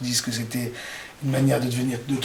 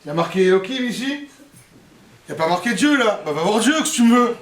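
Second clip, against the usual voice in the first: brusque husband; 4 semitones higher, 3 dB louder than usual. Acted. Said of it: "Il fait, écoute".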